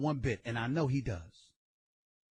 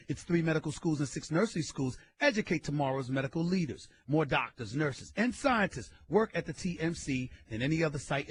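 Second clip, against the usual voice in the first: ad read. Acted. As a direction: read the spot cleanly, like a promo. Reads a sponsor ad.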